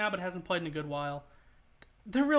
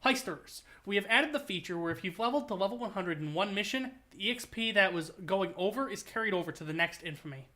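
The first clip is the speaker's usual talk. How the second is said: Almir voice. Pretend. Streamer reads an update to chat as Almir, mild announcer voice. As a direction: read the patch note like the heist crew's announcer. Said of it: "I have to do the Almir voice".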